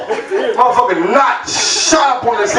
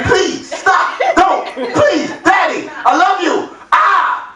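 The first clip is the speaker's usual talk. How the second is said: put-on higher, whiny kid pleading; mock begging child; 7 semitones higher, slower than usual. Son begging daddy to stop, mock pleading. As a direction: plead like a scared little boy, hammed up.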